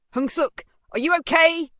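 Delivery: loud, high worried call; alarmed mother. A narrator's reading. Mother finds her son hurt, calling anxiously. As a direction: cry out anxiously to your child. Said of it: "her voice broke through".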